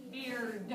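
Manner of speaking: "Beard" with a separate, released D; final D emphasized. Shown as a demonstration. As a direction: sound out the D ending of "Beard". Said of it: "What's the sound at the end of beard?".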